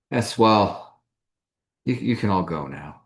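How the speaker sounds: flustered stammer, trips over words. Acted. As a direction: stumble nervously through it. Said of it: "stammers a bit".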